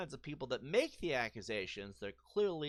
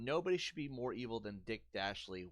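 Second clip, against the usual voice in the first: mock cartoon villain; 5 semitones lower than usual. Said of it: "Let's read his next comment".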